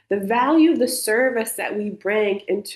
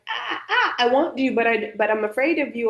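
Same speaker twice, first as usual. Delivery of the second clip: anxious; 2 semitones higher than usual. Retold or imitated. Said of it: "if you're dysregulated, you're like".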